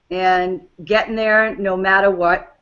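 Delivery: slipping into a New England accent. Real, not acted. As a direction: let the New England accent show on "matter". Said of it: "did you hear my New England accent?".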